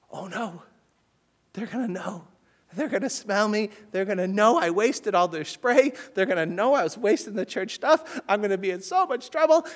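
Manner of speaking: retold panic. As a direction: replay the child's rising panic. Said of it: "go out the back door in a panic".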